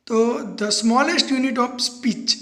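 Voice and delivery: very slow, word by word; slow dictation. Shown as a demonstration. Teacher dictating the definition to students, very slow. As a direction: dictate it so they can write. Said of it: "teacher dictating definition".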